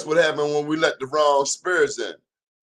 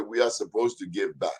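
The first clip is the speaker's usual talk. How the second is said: put-on quoting her in a light West African accent; a hint of West African accent; mild West African lilt; 3 semitones lower, 3 dB quieter than usual. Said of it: "That's my West African accent".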